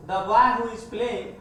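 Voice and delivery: slow, word by word; slow dictation. Shown as a demonstration. Teacher repeating the example slowly so students can follow. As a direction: spell the phrase out slowly for the class. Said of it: "देखिएगा relative का example".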